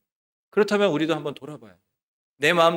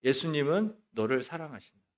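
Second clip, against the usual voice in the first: softer, restrained declaration; proclamation; 6 dB quieter than usual. Retold or imitated. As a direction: declare it softly and evenly. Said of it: "이런 말씀을 선포했어요". (나직하게 선포하듯)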